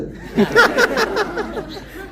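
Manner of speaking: big high burst of laughter; real laugh. Real, not acted. Laughs at his own child story.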